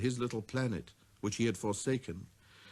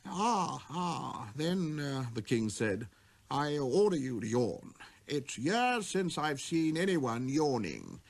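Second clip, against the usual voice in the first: lightly voiced king, slow and amused; 3 semitones higher, slower than usual. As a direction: give the order with a chuckle.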